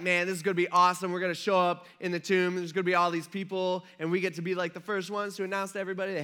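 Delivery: a touch of giddy eagerness; mildly excited anticipation. Acted. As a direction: act pumped about the big job ahead. Acts out eager angels heading to tomb.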